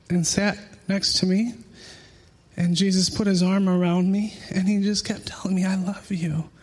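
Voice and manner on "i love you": a hushed, breathy I love you; soft whisper. Retold or imitated. Jesus whispering to the weeping man, hushed. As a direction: whisper it like a secret comfort.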